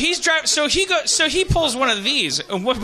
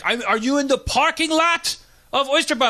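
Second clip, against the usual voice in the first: pitched-up mimicked question; exasperated driver; 5 semitones higher than usual. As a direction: imitate an exasperated driver asking. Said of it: "finally he acted exasperated".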